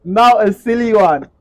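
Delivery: mock chirpy voice. Repeating the line slowly.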